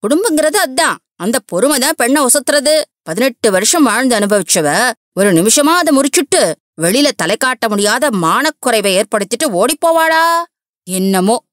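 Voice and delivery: put-on high, indignant older woman lecturing; scolding mother-in-law. Mother-in-law rebuking Girija for leaving her husband, high and scolding.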